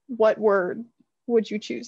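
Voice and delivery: oddly paced question; awkward phrasing. Real, not acted. Asking the question awkwardly, then fixing it. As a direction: stumble a little over the question. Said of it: "That was a weird way to say that".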